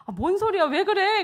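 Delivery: imitated baffled mother, high and loud; startled questioning. Mother's startled reply to son.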